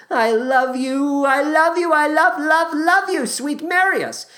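high, slow, breathy dying declaration; dying confession. Acted. Eponine dying in Marius's arms, high slow farewell. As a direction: gasp it out with your last breath. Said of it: "confesses her love before dying".

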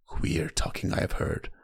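hushed, breathy whisper. A narrator's reading. Salladhor whispers to Davos about the Red Woman, hushed. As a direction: lean in and whisper it like a secret. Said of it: "lowered his voice".

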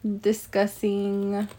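talking through chips; words round a mouthful of chips; crunching chips. Real, not acted. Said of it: "Sorry, I'm eating chips".

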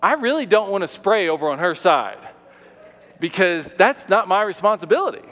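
tight, emphatic mock resentment, pitched slightly up; acted-out grudging refusal; through gritted teeth. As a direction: grit your teeth and grudgingly insist. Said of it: "just through gritted teeth".

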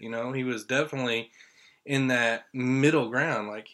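ordinary talk, nothing marked

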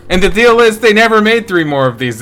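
loud, emphatic correction. Real, not acted. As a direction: punch it out firmly.

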